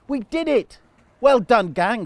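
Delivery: high, loud victory cheer; triumphant cheer. Acted. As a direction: celebrate with the whole gang. Goats finally pull out root.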